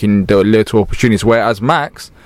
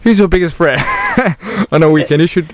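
put-on Scouse accent; 5 semitones higher than usual. Interviewing in Scouse bit.

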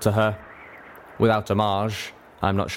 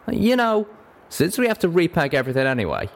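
higher-pitched, drawling country character; folksy Western voice, pitched up; bashful cowpony; 9 semitones higher than usual. Acted. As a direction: play a flustered cowpony.

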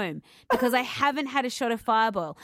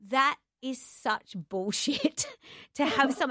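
retold yell; 4 semitones higher, slower than usual. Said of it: "yelled in my face".

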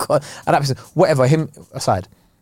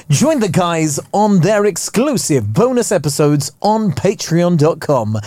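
slow ad read; 3 semitones higher, slower than usual. Acted. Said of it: "ad read plug".

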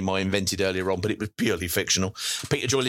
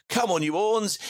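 retold holler; 9 semitones higher than usual. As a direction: imitate a fan calling out, pitched high. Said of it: "I strode up to him and hollered".

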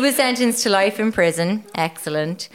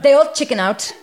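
put-on comic German accent, lifted pitch; 3 semitones higher than usual. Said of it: "do it in a German accent".

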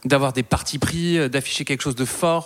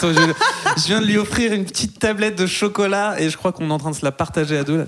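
laughing; 4 semitones higher than usual. Real, not acted. Laughing about sharing chocolate.

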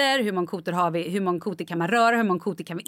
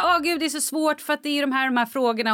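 higher, faster, laughing stressed-student whine; mock whiny Rachel; 5 semitones higher, faster than usual. Rachel whining to Monica over hard questions, laughing whine. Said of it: "Och hon bara".

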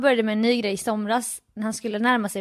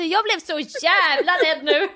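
retold panic; 5 semitones higher than usual. Acts out her panicked reply.

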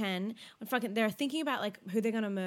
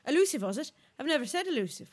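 mock Welsh, a bit higher; attempted Welsh accent; 5 semitones higher, 4 dB louder, faster than usual. Co-host echoing a contestant's unfamiliar word, Welsh accent. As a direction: have a go at a Welsh lilt. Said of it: "How do you say it in a Welsh accent?".

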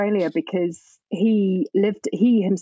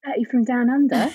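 badly faked Australian accent, pitched higher; terrible Australian accent; 4 semitones higher than usual. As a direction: have a poor go at Australian. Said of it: "That was a terrible accent".

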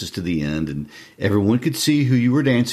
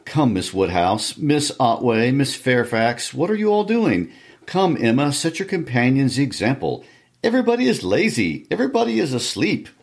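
much higher, hearty host rousing the room; bustling Mister Weston; 6 semitones higher than usual. Acted. Host rousing guests to dance at the ball, high bustling call. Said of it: "the bustle of Mister Weston calling on everybody".

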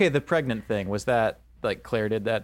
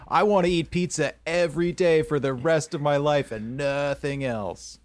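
mock eager contestant; 3 semitones higher than usual. Parodying contestants' bland intros.

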